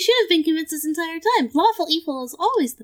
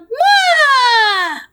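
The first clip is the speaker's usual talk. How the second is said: descending evil laugh; 4 semitones higher, 4 dB louder than usual. Shown as a demonstration. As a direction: push "Mwah!" out on a descending tone. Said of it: "demonstrate for us what the descending tone".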